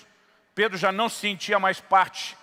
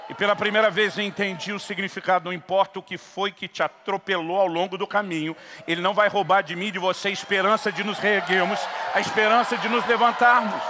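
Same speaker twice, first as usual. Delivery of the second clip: preaching at full force; 2 semitones higher than usual. Acted. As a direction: build it up and proclaim hope. Climax of the sermon. (pregação com toda a força)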